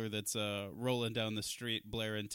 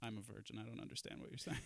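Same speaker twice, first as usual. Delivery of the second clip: mock innocent; 4 semitones lower, 13 dB quieter, much faster than usual.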